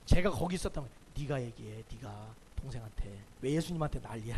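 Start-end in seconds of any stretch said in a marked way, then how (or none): 1.2-4.3 blunt retort. Retold or imitated. Preacher imagines telling Martha off.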